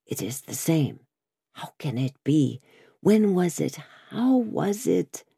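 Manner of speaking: lightly voiced bewildered old prisoner; murmured, faintly puzzled questioning; dazed prisoner. Bewildered prisoner recognises golden hair.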